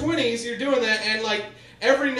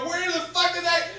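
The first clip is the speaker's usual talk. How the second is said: shocked outburst; 8 semitones higher than usual. Retold or imitated. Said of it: "I go".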